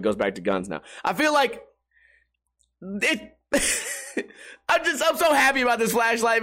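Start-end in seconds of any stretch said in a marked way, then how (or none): 2.8-6.4 gushing through laughter; happy, laughing words, pitched up; real delighted laugh in the voice. Real, not acted.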